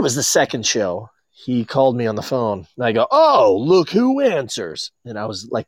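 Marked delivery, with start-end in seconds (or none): 3.1-4.9 slow, smug drawn-out greeting; cocky. Retold or imitated. Friend answering the phone, slow and cocky. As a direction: needle the caller with a cocky drawl. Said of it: "cocky to him".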